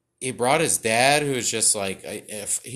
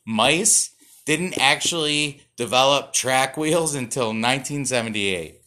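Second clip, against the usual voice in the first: hammed-up trivia host; 3 dB louder than usual. Hammed fun-fact segment.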